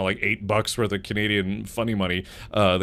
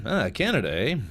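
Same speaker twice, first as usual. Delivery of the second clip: mock Canadian. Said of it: "fun facts about Canada".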